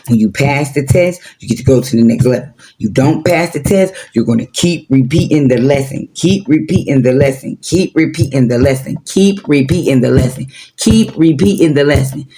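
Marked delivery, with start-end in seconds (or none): 6.1-12.3 repetitive drone. Shown as a demonstration. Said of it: "might have been irritating for y'all".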